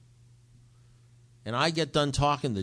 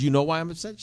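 high, loud retold question; incredulous question; 7 semitones higher, 9 dB louder, faster than usual. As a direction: demand it in disbelief. Retold disbelieving question to sponsor.

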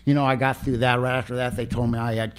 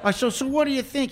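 laughing; 11 semitones higher than usual. Retold or imitated. Retells his own reply.

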